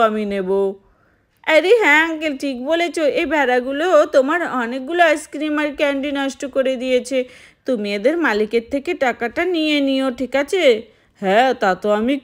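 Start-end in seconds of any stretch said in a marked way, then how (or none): 1.5-10.6 put-on little child agreeing with the ice cream uncle.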